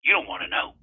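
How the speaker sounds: put-on folksy drawling old-timer; old prospector. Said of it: "now you listen here, buddy".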